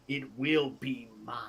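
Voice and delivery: villain whispering the threat; menacing whisper. Acted. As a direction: let the last words drop to a whisper. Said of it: "and is like".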